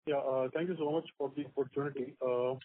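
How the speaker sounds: quiet and muffled, like through a hand; muffled speakerphone voice. Real, not acted. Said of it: "your line was muffled".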